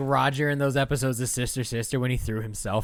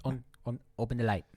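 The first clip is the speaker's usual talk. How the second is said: put-on a light Filipino accent, mom giving orders; imitating her Filipino mom at home, light accent; 6 dB quieter, faster than usual. Filipino accent, bossy mom. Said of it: "you just do your B's and your V's different".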